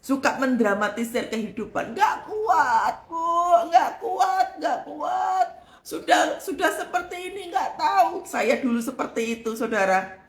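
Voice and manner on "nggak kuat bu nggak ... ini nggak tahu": dramatic whining. Retold or imitated. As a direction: act out a melodramatic "can't take it". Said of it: "suka lebay".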